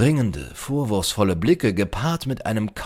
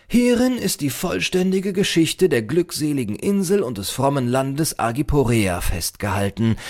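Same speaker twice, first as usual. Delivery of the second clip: high, declamatory opening settling down; solemn proud librarian; 8 semitones higher, 4 dB louder than usual. A narrator's reading. Librarian presents the island's history, solemnly declamatory. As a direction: present it grandly like a learned keeper.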